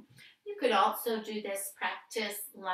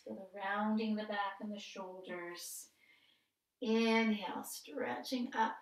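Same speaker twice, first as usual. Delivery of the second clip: calm, measured breath-cue delivery with pauses; guided yoga practice. Real, not acted. Yoga teacher guiding a seated breath warm-up, calm instructional voice. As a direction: lead gently through breath and movement, lengthening the cues.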